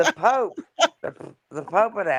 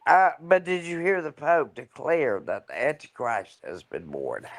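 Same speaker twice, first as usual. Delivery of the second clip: talking while flossing teeth; words round the floss in the mouth; 2 semitones lower, 3 dB quieter, slower than usual. Real, not acted. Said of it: "I'm flossing my teeth".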